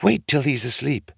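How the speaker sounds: lightly high wife's voice; hushed wife. A narrator's reading. Ogre's wife telling Jack to wait, a lightly high voice. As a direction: tell the boy to wait. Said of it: "says she".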